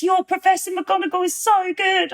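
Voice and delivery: a lightly voiced McGonagall quoting her fans; comment read as McGonagall. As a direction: read the fan comment as a stern Scottish professor. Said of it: "everyone was blowing up the comments".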